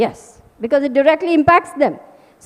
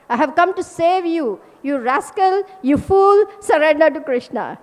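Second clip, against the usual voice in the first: blunt rebuke; 2 semitones higher than usual. Retold or imitated. Teacher rebuking worldly listeners, a stern scolding. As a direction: hammer the rascals to surrender. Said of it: "Of course, we cannot speak like this. Prabhupada can speak like this".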